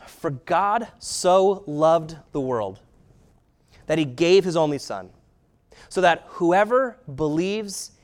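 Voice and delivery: slow, measured reading of the verse; scripture reading. Acted. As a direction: read it out slowly and reverently. Reads scripture slowly.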